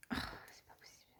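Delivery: exasperated mutter. Real, not acted. Annoyed at a wrong paper.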